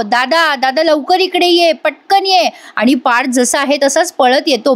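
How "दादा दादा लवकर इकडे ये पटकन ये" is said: higher, urgent call for help without real shouting; retold cry for help, pitch climbing; mock panicked call. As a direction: imitate a frightened call to a brother. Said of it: "घाबरतो जीवा ... आणि ओरडतो".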